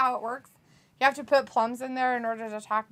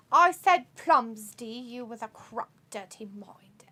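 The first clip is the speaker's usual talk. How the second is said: put-on British accent. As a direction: exaggerate the British accent, then drop to a hush. Same chatter's message in put-on accent.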